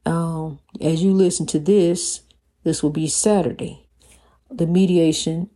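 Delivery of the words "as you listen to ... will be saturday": quick whispered aside. Real, not acted. Telling listeners the posting day in a whisper. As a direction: drop to a whisper for a side note.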